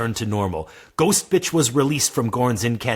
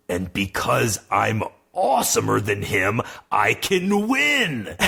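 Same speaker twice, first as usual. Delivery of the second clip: triumphant. Acted. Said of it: "said Swordborn triumphantly".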